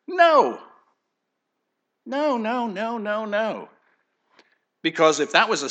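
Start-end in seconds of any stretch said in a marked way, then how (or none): 0.1-3.7 emphatic no. Real, not acted. Emphatic rejection of teaching.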